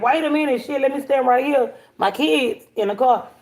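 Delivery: a touch of retold panic over the kids; retold worried plea. Pleading about kids in car.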